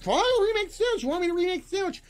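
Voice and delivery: fast, high-pitched mock grumbling; grudging huff. Worker told to remake sandwich, grudging and huffy. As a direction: rattle it off like a fed-up worker.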